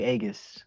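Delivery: "Aegis" as a best-guess name; improvised pronunciation. Shown as a demonstration. Unsure of a chatter's name, guessed pronunciation. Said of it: "how to pronounce your".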